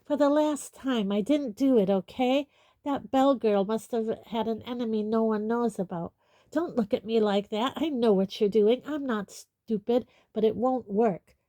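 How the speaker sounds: put-on furious teenage defiance; angry. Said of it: "said Malfoy angrily".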